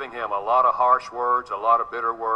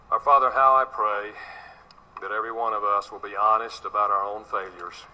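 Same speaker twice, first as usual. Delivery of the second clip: measured, reverent pastor's prayer; earnest prayer. Acted. Pastor praying over his congregation about anger, earnest and reverent. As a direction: pray it humbly over the congregation.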